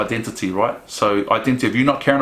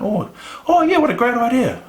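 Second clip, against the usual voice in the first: mock sarcastic enthusiasm; 12 semitones higher than usual. Mocking a person told of suicide.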